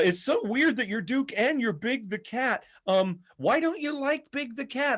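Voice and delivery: high-pitched fan voice; high, quizzical mock fan; imitated fans. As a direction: pitch way up like a puzzled convention fan. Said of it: "fans would go, um".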